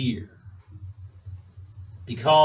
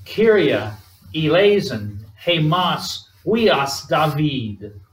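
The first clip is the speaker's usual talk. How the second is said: raised, deliberate cry in Greek; preacher voicing a desperate call; 2 semitones higher, much slower than usual. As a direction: call out the plea, strong first word then drawn out. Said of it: "These two men cry out".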